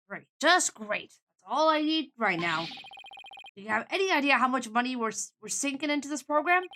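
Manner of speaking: exasperated New York businessman; New York accent. Acted. Man hearing of the accident, exasperated New York accent. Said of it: "I'm getting a New York vibe".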